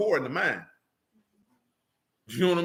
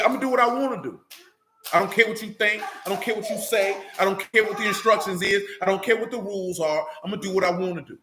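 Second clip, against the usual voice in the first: mock defiant voice; 2 semitones higher than usual.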